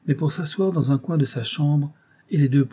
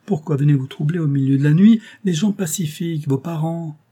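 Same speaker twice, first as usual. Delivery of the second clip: raised, higher pleading voice, a wounded brother; plaintive protest; 4 semitones higher, 3 dB louder than usual. Acted. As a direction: protest your innocence in a high, plaintive plea. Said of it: "Ce langage plaintif". (plainte indignée, voix haute et plus forte)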